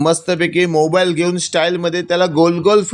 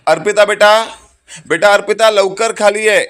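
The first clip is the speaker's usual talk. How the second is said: father summoning daughter from her bedroom, raised call; 5 semitones higher than usual. Acted. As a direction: call her from across the house. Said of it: "स्वतःच्या मुलीला आवाज देत असतो".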